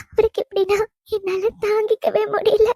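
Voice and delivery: sobbing between phrases as control slips; tearful despair. Acted. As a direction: break down helplessly while pleading. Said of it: "நீங்க அழாதீங்க". (அழுதுகொண்டே தவிப்புடன்)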